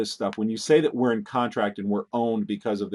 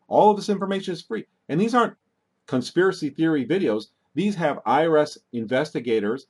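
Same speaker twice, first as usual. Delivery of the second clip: getting worked up; 5 semitones higher than usual. Real, not acted. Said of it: "I'm getting worked up".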